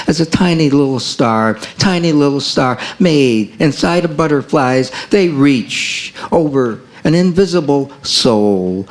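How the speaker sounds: measured, lyrical poetry recital; poem reading. Acted. Poet reading to the room, lyrical recital. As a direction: read it like a poet at an open mic. Reads own poem aloud.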